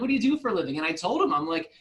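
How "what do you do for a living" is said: higher-pitched, rough New Zealand imitation; attempted New Zealand accent. Retelling the neighbor asking about work, attempted New Zealand accent. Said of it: "I can't do a New Zealand accent very well".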